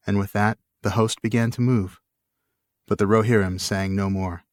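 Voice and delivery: steady, measured reading of an epic; story narration. A narrator's reading. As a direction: read it like a solemn saga. Reads the book aloud.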